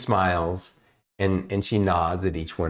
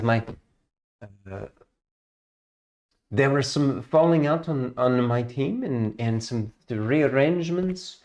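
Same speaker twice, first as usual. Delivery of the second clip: put-on higher, sweet, reserved young elf; elf ranger voice; 4 semitones higher than usual. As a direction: speak as a sweet shy elven ranger, a little higher.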